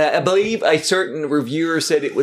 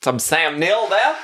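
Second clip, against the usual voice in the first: Sam Neill; 3 semitones higher than usual. Acted. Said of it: "That may be more New Zealand".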